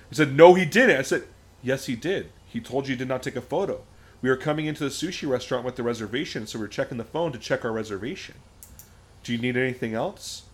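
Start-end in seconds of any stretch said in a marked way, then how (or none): 0.4-1.0 loud, high retort; heated mock contradiction, pitched up; imitated angry denial. Retold angry man contradicting. 1.6-10.4 trauma-informed social worker. Retold or imitated. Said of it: "full trauma-informed social worker".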